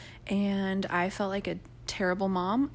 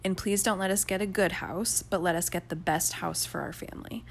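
earnest prayer; 2 semitones lower than usual. Retold or imitated. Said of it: "this was my prayer".

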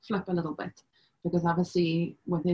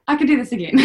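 settling resolve; 4 semitones higher, 6 dB louder, faster than usual. Retold or imitated. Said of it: "And I was".

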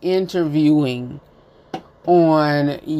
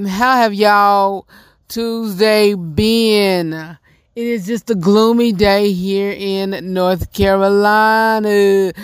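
light Southern country accent slipping in; slower than usual. Real, not acted. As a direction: North Carolina country accent, last word stretched out. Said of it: "my little country accent come in".

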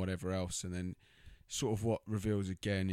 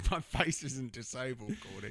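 lightly voiced indignant woman; 3 semitones higher than usual. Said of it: "She's like".

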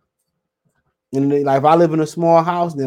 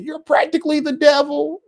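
high squeaky movie quote, rising at the end; quoting the movie; 12 semitones higher than usual. Retold or imitated. Streamer repeating the movie line to viewers, high and squeaky. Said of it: "He said".

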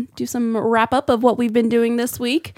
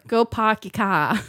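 put-on Boston accent; slower than usual. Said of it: "Maybe if I say it with a Boston accent".

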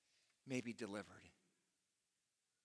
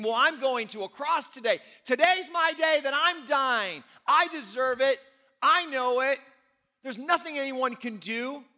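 Barabbas resigned to death; 9 semitones higher, 11 dB louder than usual. Acted. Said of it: "Barabbas woke up that day thinking".

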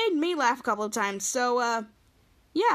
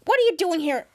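Captain Man; 4 semitones higher, 4 dB louder, faster than usual. Retold or imitated. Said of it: "Captain Man's like".

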